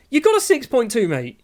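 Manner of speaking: scolding. Real, not acted. Scolding goalkeeper in team talk.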